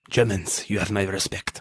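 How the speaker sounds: lightly put-on, badly done French accent; terrible French accent. Film fan quoting the French footballer's line, bad French accent. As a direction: attempt a French accent and botch it. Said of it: "That was a terrible French accent I just did".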